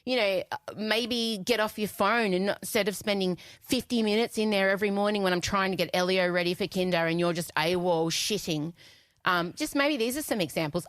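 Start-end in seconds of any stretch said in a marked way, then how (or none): 0.1-8.7 mock pleasant. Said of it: "I was very pleasant".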